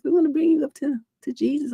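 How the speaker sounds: high, mock-sweet missionary voice; mocking Jehovah's Witness. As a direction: ape the pious visitor in a sugary high tone. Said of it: "and I said, you know, like".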